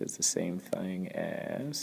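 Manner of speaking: slow Southern drawl. Real, not acted. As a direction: stretch it out in a Southern accent. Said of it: "sorry for the southern accent there".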